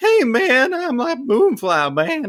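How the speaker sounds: very high, slow, swooping, sing-song, each word stretched. Player trying out a voice for their character Moonfly: Moonfly voice. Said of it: "I wondered if I should do that voice of like".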